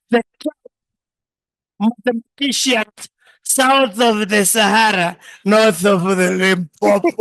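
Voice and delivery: grand, slow self-important showing off; mock grand self-introduction, hammed up; pompous boasting. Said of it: "ningekuwa najiintroduce".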